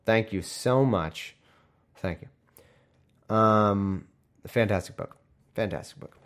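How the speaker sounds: dry sarcastic thanks; deadpan fake gratitude.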